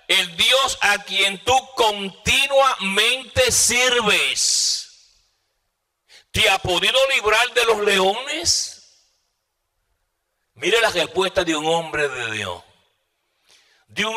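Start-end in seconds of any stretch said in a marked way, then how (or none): 0.1-8.8 high, very drawn-out preached cry; a king's stretched call down into a pit; calling out anxiously. A narrator's reading. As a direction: linger on each word, rising to a pleading question. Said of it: "a voces a Daniel con voz triste".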